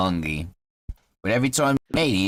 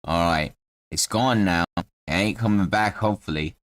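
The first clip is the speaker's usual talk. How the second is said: lower-pitched Cockney character voice; Cockney halfling; 4 semitones lower than usual. Acted. Halfling mourning his showcase cat, low Cockney voice. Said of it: "'cause he's Cockney".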